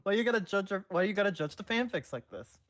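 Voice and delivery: high, laughing mock scolding. Real, not acted. Co-host scolding the pocket figure, laughing. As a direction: scold the little figure while cracking up.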